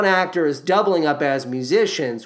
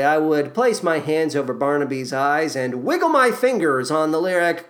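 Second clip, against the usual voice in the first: ordinary talk, nothing marked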